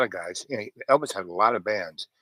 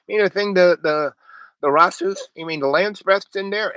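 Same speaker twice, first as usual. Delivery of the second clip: raised, louder voice, recalling an eager question; mildly excited question; 7 semitones higher, 5 dB louder than usual. Retold or imitated. Asking the man about Jamaican weed, mildly excited. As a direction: act out your own keen question, pitched up.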